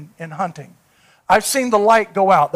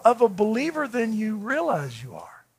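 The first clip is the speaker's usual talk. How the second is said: hushed, breathy confidence; whisper; 4 semitones higher, 6 dB quieter than usual. Retold or imitated. Preacher whispering his point to the young man. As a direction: lean in and whisper it to him.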